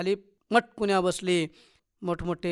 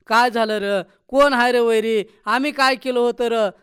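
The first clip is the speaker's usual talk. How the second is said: acted wail, building louder and higher; anguished wail; 3 semitones higher, 7 dB louder than usual. A narrator's reading. Woman at her burnt-down slum, wailing in accusation. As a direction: cry out in grief, demanding answers. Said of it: "तिनं टाहो फोडला".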